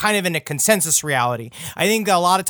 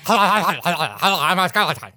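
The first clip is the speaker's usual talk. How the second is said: slow, laughing skeleton voice. Pretend. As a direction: play a goofy talking skeleton. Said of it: "would you do your skeleton impression".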